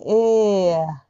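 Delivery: えーや gliding smoothly; なだらかに. Shown as a demonstration. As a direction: glide えーや gently. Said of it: "なだらかに".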